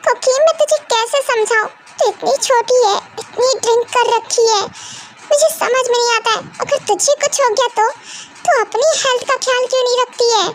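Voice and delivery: high, exasperated lecture; scolding mother. Acted. Mother lectures her drunk daughter, high and exasperated. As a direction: pour out the worry as a scolding.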